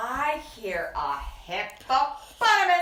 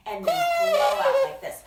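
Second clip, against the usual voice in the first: laughing; 6 dB louder, much faster than usual. Shown as a demonstration. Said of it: "this is how Nate and I make our elephant sound".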